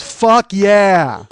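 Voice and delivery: loud, thrilled "fuck yeah"; agency guy cheering from the couch; hyped cheer. Retold or imitated. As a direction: yell it like a fan at a fight. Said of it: "He goes".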